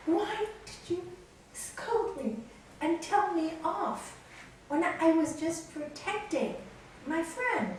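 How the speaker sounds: high, slow, aggrieved question; retold angry protest. Nalini asks the guru why he scolded her, indignant. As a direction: confront your guru with wounded indignation. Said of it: "really angry".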